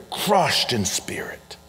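"Crushed in spirit" said slowly and softly, savoured; slow echo. Shown as a demonstration. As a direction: linger over each word. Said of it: "I love this term".

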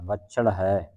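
ਵਛਲ with a held, doubled middle consonant; added weight. Shown as a demonstration. Teacher repeating the word for a student, weighted ਵਛਲ. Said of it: "ਅਧਿਕ ਲਾ ਕੇ ਉਚਾਰਨ ਕਰਨਾ".

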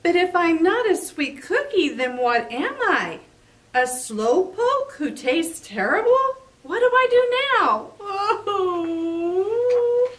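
high whimpering sob at the end; crying cookie. Acted. Cookie learns he tastes terrible, crying high. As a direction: break down into tears. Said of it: "he cried".

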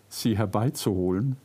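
ordinary talk

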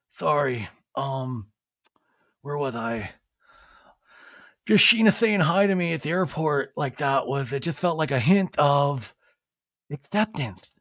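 halting mock choke-up with long pauses; imitated tearful confession. Sandoval moved by Sheena's hello, halting mock-tearful impression. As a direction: falter as if holding back tears. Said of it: "he's fully crying in this one".

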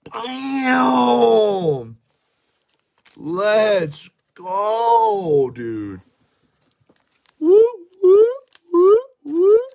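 hyped whooping shouts; frat bro. Real, not acted. Hyped pack reveal, whooping.

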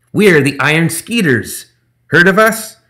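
high, loud, slow gremlin brag; boasting gremlin. Acted. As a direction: puff up with pride.

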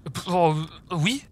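fumbling, hesitant yes; flustered stammer. A narrator's reading. Ginny answering Harry's dinner invitation, stammering. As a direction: stumble through filler sounds before agreeing. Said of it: "bafouillai-je".

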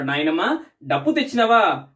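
a lightly voiced eager little boy; eager child. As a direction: ask like a boy hoping for his drum. Boy asks grandma again.

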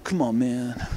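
mild imitation of a broody guy; broody man imitation. Reviewer imitating Clay at the bachelor party, broody. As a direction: lightly put on a broody man's plea. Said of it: "he actually says it like that".

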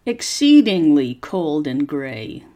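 slow, clear teacher's reading for repeating; slow read-aloud model. Shown as a demonstration. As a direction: read each phrase slowly so learners can copy the tune. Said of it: "Copy how my voice goes up and down".

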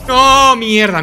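sharp loud swearing; frustrated curse. Real, not acted. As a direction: snap out the curse. Frustrated outburst.

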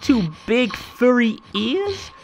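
building from a question to a high, loud cry; rising alarm. A narrator's reading. Reading to a child, building fright as the bear appears.

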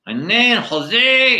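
high, loud drawn-out Latino puppet voice; Latino-accented eagle puppet. Acted. Eagle puppet introduces himself to the ventriloquist, loud Latino accent. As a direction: sing out the name in a Latino accent. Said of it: "you have a Latino accent".

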